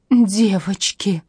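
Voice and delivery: очень протяжно и жалобно; тянуть слово, готовясь разрыдаться; плаксивый стон. A narrator's reading. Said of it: "повторила Катя и залилась горючими слезами". (громкое жалобное причитание)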